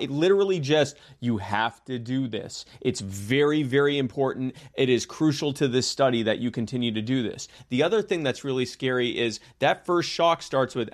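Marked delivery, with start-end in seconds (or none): 1.2-7.5 stern authoritative tone. Retold or imitated. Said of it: "very stern tone, authoritative tone".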